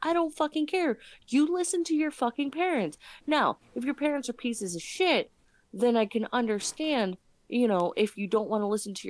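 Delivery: heated, shouting rant; loud rant. Real, not acted. Ranting about disobedient kids.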